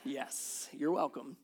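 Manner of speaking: slow, lightly hammed-up storybook voice; storybook reading voice. Shown as a demonstration. Dad reading the bedtime book as the kids insist, slow storybook voice. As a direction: read it the way the kids demand. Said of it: "you have to say it like this".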